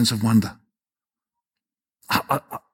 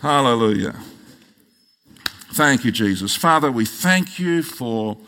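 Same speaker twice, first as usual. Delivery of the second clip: congregational prayer; 2 semitones higher than usual. Real, not acted. Pastor thanking God for the church's vision, in measured prayer. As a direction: lead the church in earnest thanks, pausing between phrases.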